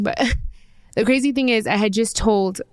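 crying. Real, not acted. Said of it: "I'm sorry, I'm crying".

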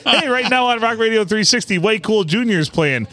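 mock radio DJ, announcing a song; lightly hammed-up station plug; radio announcer read. Texting a friend, the mock DJ announcement. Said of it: "And I said".

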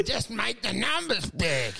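slow, put-on needy plea; mock needy podcaster; needy demand. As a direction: beg the audience for numbers. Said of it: "You go".

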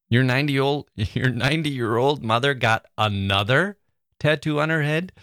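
amused stress with a laugh; laughing reread. Shown as a demonstration. Host laughs rereading about the tattoo. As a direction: chuckle through the line. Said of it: "emphasizing different parts".

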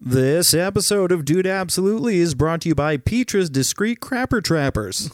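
announcer voice for a fake ad; ad read. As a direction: read it like a radio sponsor spot. Reading a fake sponsor ad.

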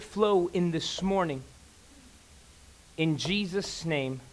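hushed pastor's prayer. Real, not acted. Pastor prays over the sermon.

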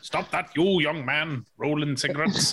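slow, stern telling-off; mock tell off a naughty boy; scolding parent. Mock scolding a friend as a kid.

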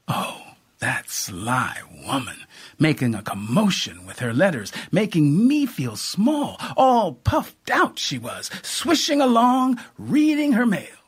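mock the vain neighbor swishing along; a touch of scornful mimicry; mocking old aunt. Cora mocking her neighbor.

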